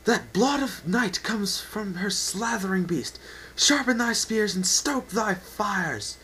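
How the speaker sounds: slow, loud commanding roar; roaring orders. Acted. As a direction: bark it at the ranks. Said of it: "He roared back and forth".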